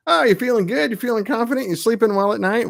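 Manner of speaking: high, teasing fake concern; lightly voiced taunting world; mock taunting world. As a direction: needle the listener like a smug bully. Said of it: "said the world".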